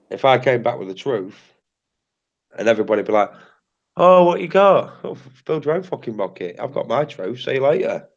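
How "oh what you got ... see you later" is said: mock selfish gloater. Mocking selfish people with truth.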